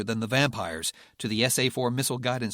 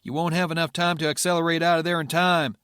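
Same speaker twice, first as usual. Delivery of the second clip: serious; 6 semitones higher, 6 dB louder than usual. Acted. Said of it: "Luger said seriously".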